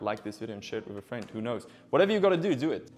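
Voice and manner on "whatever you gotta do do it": loud, high, pushy urging; excited. Real, not acted. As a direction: hype it up, almost shouting. Begging viewers to subscribe.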